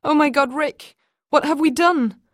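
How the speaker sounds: high, loud, distraught; frightened. Acted. Mother asking husband what they've done, frightened. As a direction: plead in fear. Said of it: "They were both frightened".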